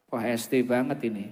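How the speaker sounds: usual speaking voice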